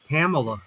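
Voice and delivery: Kamala with first vowel as in "camel"; own pronunciation of Kamala. Shown as a demonstration. Giving friends their own way to say it, Kamala as KAM-uh-luh. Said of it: "I pronounce it".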